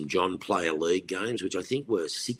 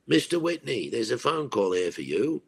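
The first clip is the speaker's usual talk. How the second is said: polite attendant; 5 semitones higher than usual. Retold or imitated. Attendant brings phone, addresses him.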